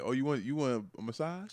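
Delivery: soft, slow mock sweet-talk; coaxing boyfriend. Boyfriend offering massage before bad news, mock tender. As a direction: play a boyfriend gently buttering her up. Boyfriend buttering up girlfriend in skit.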